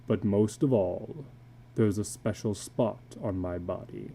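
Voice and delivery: a weary tattooed man confessing low; illustrated man. Acted. Tattooed man confiding to a stranger at dusk, low and weary.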